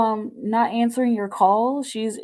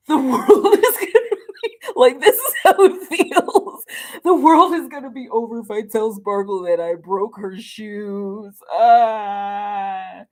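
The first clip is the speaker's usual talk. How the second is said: mock dramatic panic; 8 dB louder than usual. Reader acting out the nervous friend, laughing hard. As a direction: ham up the friend's end-of-the-world drama while cracking up. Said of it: "And she's just like".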